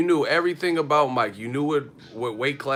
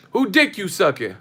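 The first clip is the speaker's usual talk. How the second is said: mock yell; 7 semitones higher, 6 dB louder than usual. Neighbors arguing through hotel wall.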